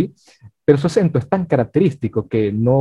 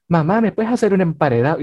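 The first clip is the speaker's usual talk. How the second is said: higher, lightly voiced kid's request; nephew asking mom; 5 semitones higher than usual. Nephew asking his mother for food, lightly voiced child. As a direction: ask mom like a kid using dubbed Spanish. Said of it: "si tienes un sobrino y tal".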